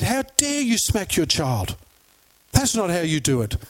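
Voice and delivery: mild mock outrage at a stranger; offended. Offended woman repeating her rebuke to a mother, mildly indignant. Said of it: "was absolutely offended".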